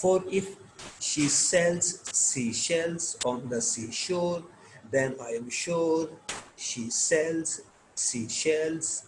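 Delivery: "she sells sea shells" slowly, phrase by phrase; careful S in "sells", SH in "shells", pausing between phrases; tongue-twister reading. Shown as a demonstration. Teacher reading a tongue twister to learners, slow careful demonstration. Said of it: "یہ بھی ٹنگ ٹوئسٹرز ہیں".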